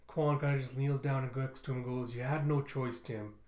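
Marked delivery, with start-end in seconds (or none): 2.1-3.3 understated comforting voice; gentle consoling. Acted. Quan kneels to console Tim.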